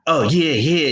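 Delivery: lightly imitated catchphrase, drawn out and wavy; a hint of an imitation, yeahs rolling up and down. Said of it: "in my B L T B voice".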